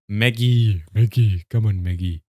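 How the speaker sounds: loud call across the map. Real, not acted. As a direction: call her in, loud and insistent. Calling the colonist in.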